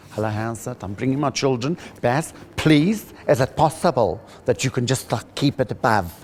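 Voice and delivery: imitating a mum asking him to keep it clean; pleading mum. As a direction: ask him nicely, like a worried mother.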